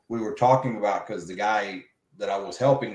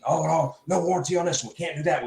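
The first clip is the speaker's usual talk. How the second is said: mock instant refusal; 4 semitones higher, faster than usual. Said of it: "he just immediately wanted to be".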